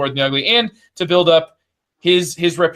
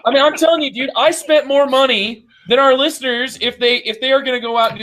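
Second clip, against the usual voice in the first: infomercial voice; 8 semitones higher than usual. Pretend. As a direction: sell it like a late-night ad. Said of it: "You got the infomercial voice on".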